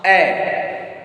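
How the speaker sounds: "A" said as an open "eh"; a separate, falling "A" pronounced eh; accented A sound. Shown as a demonstration. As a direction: model the grave-accent sound of "A" as eh. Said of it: "A will be pronounced".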